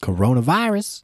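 hammed-up diagnosis after coughing; joking; mock fake cough.

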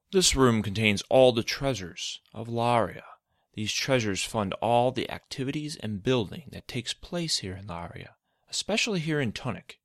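proud, lightly voiced mentor; Izod voice. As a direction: show off the treasure proudly. Izod character voice.

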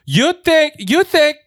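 high-pitched mock Chinese accent; terrible Chinese accent. Cafe stranger starts screaming at the laptop owner, high mock Chinese accent. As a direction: imitate an irate woman in a bad Chinese accent. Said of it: "I'm doing a terrible Chinese".

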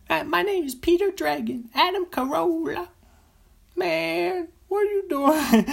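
very high falsetto Big Mama voice; high, loud falsetto character voice; Big Mama impression. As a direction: squeal his name like a sassy mama. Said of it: "That's his Big Mama character".

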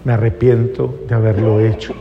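low-pitched, understated remorse; disculpa del padre. Acted. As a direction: act a parent apologising, voice dropped and measured. Padre pide perdón al hijo. (arrepentimiento sereno, en tono grave)

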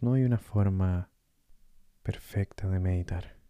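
calm meditation guide with long pauses; guided meditation. Acted. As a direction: gently guide the listener through breathing, leaving space between phrases.

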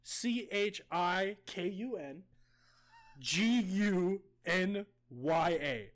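letter by letter, slow; spelling slowly. Shown as a demonstration. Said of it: "spelling the word out".

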